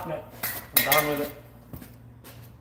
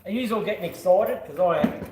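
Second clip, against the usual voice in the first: excited; 3 semitones higher than usual. Real, not acted. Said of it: "Can you tell?".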